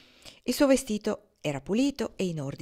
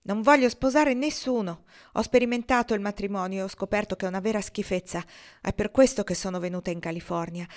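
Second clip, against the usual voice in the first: outburst; 3 semitones higher, 3 dB louder than usual. Acted. Ortensia bursting out to Kendra about marriage, louder. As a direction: blurt it out, then rush on. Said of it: "Ortensia sbottò".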